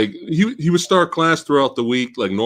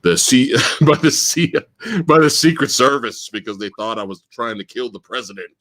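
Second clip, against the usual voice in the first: teacher imitation; 6 semitones lower than usual. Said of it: "And he goes".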